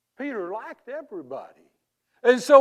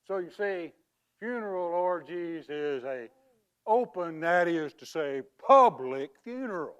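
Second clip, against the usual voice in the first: badly faked English accent; 3 dB louder than usual. Fraud explains his wrong word to mourners in a bad English accent. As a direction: pose as an Englishman with a poor accent. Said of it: "That is the worst English accent".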